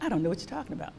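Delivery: softly, gently, almost hushed; quiet voice of God. Retold or imitated. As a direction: let God answer her quietly and kindly. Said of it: "he spoke to me ever so quietly".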